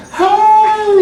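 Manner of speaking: put-on gleeful greeting back to the little girl; excited hi back. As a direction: answer the child with matching delight. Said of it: "I was like".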